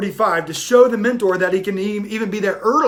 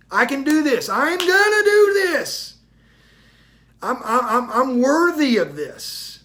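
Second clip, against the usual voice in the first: self-affirmation; 4 semitones higher than usual. Acted. Self-talk affirmation, rising.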